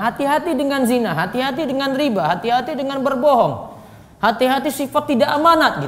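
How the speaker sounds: insistent, repeated warning; cautioning. Shown as a demonstration. Preacher reminding people of sins, insistent cautioning. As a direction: warn them point by point. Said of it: "Ada mengingatkan orang".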